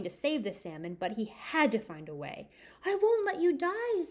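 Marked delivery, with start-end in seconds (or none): 2.8-4.1 determined promise. Acted. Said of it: "said Simon".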